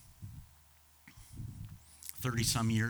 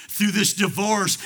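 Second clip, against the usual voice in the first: raised, slower, driving the phrase home; preaching shout; 6 semitones higher, 6 dB louder than usual. Acted. Preacher building to a shout for the congregation. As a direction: lean in and shout it out.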